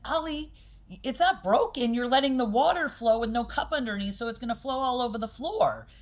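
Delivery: put-on talking to a child. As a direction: explain it up high, the way you talk to a little kid. Teacher explaining to five-year-old.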